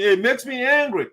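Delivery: indignant, emphatic statement; genuinely angry, emphatic; real anger. Real, not acted. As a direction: declare it with real irritation.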